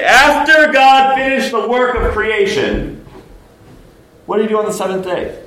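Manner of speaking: loud, high preaching shout; emphatic proclamation. Real, not acted. Preacher cutting short a debate to proclaim creation, loud emphatic proclamation.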